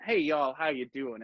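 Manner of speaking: hint of an Oklahoman twang; Oklahoman accent. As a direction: put on a folksy Oklahoman accent. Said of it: "throw on your Oklahoman accent".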